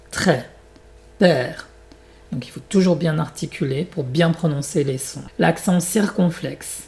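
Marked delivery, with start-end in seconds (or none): 0.1-1.7 Très and Père, each with a wide open è. Shown as a demonstration. Teacher tells learners "plus ouverte", open è in Très, Père. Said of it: "la bouche est beaucoup plus ouverte".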